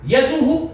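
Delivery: यजुहु with the u echoed after the breath; correct visarga. Shown as a demonstration. Teacher models for students, यजुहु as "yajuhu". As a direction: end यजुहु firmly on "hu". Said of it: "इस तरह से हमें बोलना चाहिए".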